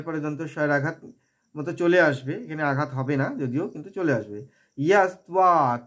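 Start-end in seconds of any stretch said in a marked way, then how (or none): 4.8-5.8 "ত্বা" with teeth meeting lip, a v; tva sound. Shown as a demonstration. Teacher showing the cluster, "ত্বা" pronounced t-va. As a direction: say "ইয়াস ত্বা", vowel held. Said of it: "ত্বা উচ্চারণ করবো".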